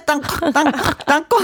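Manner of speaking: high playful chant of 땅콩; peanut gag. Retold or imitated. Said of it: "기억나요?".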